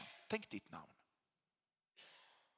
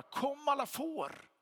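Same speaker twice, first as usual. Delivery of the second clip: much higher, loud, drawn-out call; shepherd calling out; 12 semitones higher, 4 dB louder than usual. Acted. Shepherd calling all his sheep, loud and high. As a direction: call the whole flock from afar. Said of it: "Han säger inte bara".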